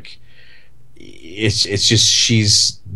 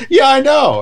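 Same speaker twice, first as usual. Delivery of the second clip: much higher, louder Caine voice; Michael Caine; 6 dB louder than usual. Retold or imitated. Actor answers talk show host in his voice. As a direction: quip it back as the star. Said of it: "He goes".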